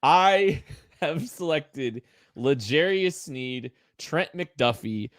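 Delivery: slow, deliberate roll call; neutral announcer voice. Pretend. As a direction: space the names out like an official reading. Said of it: "read them all in a neutral voice".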